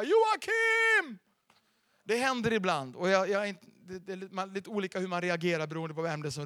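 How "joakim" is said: high, loud call across the room. Retold or imitated. Man at a petrol station calling out to the pastor, high and loud. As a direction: shout a name in glad surprise. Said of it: "och ropar".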